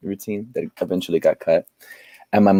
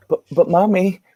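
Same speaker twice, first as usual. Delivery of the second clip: put-on high little kid voice calling for mommy; little child; 11 semitones higher than usual. Small son pleading with the woman at the door, high kid voice.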